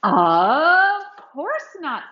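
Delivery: slow kind reassurance; gently slow it down; reassuring. Acted. Michael reassures lonely Doug, slow and kind. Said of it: "said Michael".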